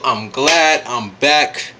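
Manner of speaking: drawn-out, relieved delivery; slow glad return. Real, not acted. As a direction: stretch it out, savoring being back. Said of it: "Let me say it again".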